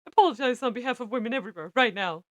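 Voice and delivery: loud scolding command; angry demand. A narrator's reading. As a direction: order them sternly, at full voice.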